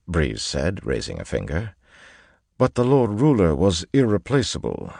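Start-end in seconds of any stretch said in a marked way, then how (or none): 2.6-4.9 lightly voiced gentleman making his point, pitched up; lecturing gentleman. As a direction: lift the pitch a little and argue the point. Breeze makes his counterargument.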